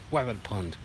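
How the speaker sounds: playful "wabbit", R turned to W; childlike W sound starting "wabbit"; cartoon mispronunciation. Cartoon wordplay on rabbit.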